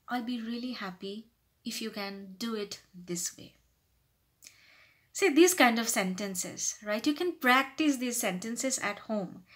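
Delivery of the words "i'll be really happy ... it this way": soft, gentle office request; humble polite request. Shown as a demonstration. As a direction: make a considerate, softened request. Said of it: "try to sound more humble".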